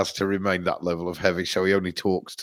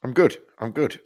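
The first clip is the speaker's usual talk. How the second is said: muffled through a voice filter; 4 semitones higher than usual. Real, not acted. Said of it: "do I sound like I've got something in my mouth?".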